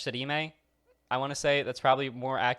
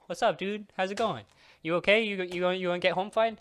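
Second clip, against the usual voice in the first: mock friendly greeting; 7 semitones higher than usual. Greeting old man on road.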